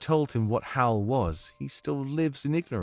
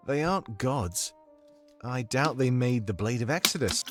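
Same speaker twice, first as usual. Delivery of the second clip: put-on musing British accent, measured phrases; Domik's comforting accent; 2 semitones lower, 5 dB quieter, slower than usual. Domik doubts the rulers are gods, musing British accent. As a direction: wonder aloud in a British accent. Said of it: "I need your comforting accent right now".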